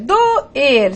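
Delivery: "doer" split in two, do, then er; syllables separated. Shown as a demonstration. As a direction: break "doer" apart between the vowels. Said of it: "Com separação silábica". ("doer" separado em sílabas: do-er)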